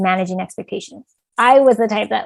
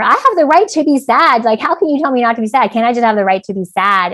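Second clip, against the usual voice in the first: retold teenage protest, higher and louder at first; upset protest; 3 semitones higher, 4 dB louder than usual. Upset high schooler answering back to mom, indignant. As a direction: argue back indignantly, easing off in pitch. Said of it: "so upset".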